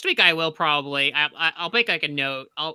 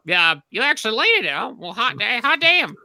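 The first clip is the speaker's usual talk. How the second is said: excited instructor; 6 semitones higher than usual. Retold or imitated. Instructor voiced in story.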